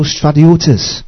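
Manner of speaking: stratiotes said slowly, syllable by syllable; teacher sounding out a Greek word; careful Greek word. Shown as a demonstration. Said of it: "The O accentuated and the E also accentuated".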